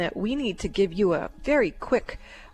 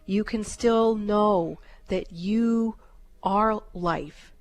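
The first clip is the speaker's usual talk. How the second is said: healing guidance. Acted. Soul healing session over music.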